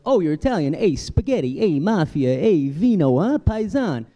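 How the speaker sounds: stereotyping Italian fan. Retold or imitated. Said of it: "it's like".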